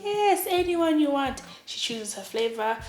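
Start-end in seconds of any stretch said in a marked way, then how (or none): 0.0-1.4 high, loud and drawn out; hammed-up generous yes; acted gushing assurance. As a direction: stretch it out, egging someone on. Gushing reply to her surprise.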